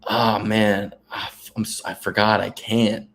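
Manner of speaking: mock regretful excuse, trailing and slow at the end; halting, put-on excuse; feigned apology. Shown as a demonstration. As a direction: fake a sheepish apology with false starts. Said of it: "my new move is this. Ready?".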